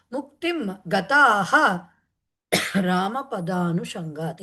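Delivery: slow, measured chant of a Sanskrit verse; slow verse recitation. Acted. Teacher reciting the verse to students, slow and measured. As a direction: intone each word slowly, like a shloka.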